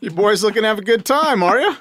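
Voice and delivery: high, far-off leering voice; creepy come-on voice. Acted. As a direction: lure them in, all sleazy. Put-on voice teasing hunters.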